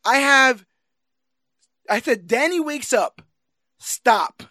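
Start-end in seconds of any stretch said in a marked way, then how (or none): 2.3-4.4 quoting her. Retold or imitated. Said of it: "That's what she says to the bear".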